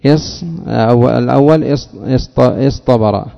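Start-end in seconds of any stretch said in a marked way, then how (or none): 2.4-3.2 اصطبر said slowly, each sound clear; careful demo word. Shown as a demonstration. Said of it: "انظر الآن".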